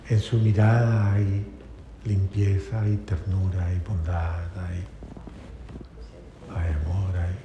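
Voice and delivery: low, slow, softening voice; hushed, low tenderness; tender reflection. Real, not acted. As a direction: list each quality gently, with space between. Tenderly lists Jesus's gentle qualities.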